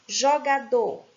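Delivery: "Jogador" leaning on final DOR; teacher's stress on DOR in "Jogador". Shown as a demonstration. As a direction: stress the last syllable of "Jogador". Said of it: "a última sílaba é que é tônica".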